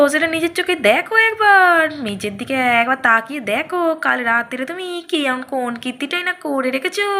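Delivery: high, fast scolding snap; angry retort. Acted. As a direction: tell him off sharply. Radha scolds the accused.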